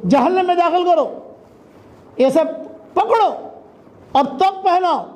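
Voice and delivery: acted divine order. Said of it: "اللہ تعالیٰ order کریں گے فرشتوں".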